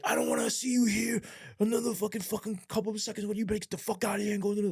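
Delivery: high, fast mock voice of the boss telling him off. Boss ordering the officer off the lot, high and fast mocking. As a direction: sneer it like the bullying boss, pitched high. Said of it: "And he's just like".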